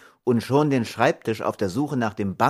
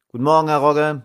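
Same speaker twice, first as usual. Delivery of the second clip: cheery postman greeting; 6 semitones higher, 7 dB louder, faster than usual. A narrator's reading. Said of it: "sagte der Postbote".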